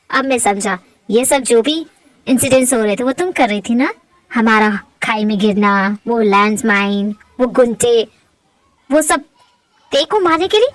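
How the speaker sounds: low voice of dawning realization; accusing man. Acted. Man confronting Saniya over the incidents, low and accusing. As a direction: piece it together in a low voice.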